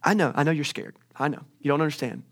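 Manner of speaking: calm, understanding tone after the scolding; reassuring God. Retold or imitated. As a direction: ease off and comfort a frightened prophet. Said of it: "Instead, he comes in and says".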